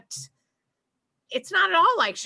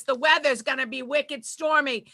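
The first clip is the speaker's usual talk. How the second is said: put-on Boston accent weather report; hammed-up Boston TV accent; Boston newscaster. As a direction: read the forecast in broad Boston accent. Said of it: "talking like this".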